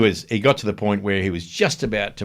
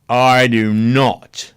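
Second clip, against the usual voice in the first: slow, firm and a bit louder; stern order; 4 dB louder than usual. Retold or imitated. Boss ordering the producer to sit in front of him. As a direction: lay down the law word by word.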